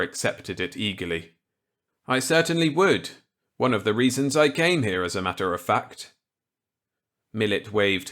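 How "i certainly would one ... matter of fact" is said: higher, louder character voice; eager reply to an old colleague; Walker's voice. Acted. Walker accepting Millet's gambit eagerly.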